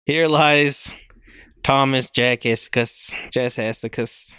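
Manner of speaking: slow, low mock-solemn reading; mock solemn epitaph. Reading his own obituary aloud, mock solemn and slow. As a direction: intone it like a grave inscription. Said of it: "It said".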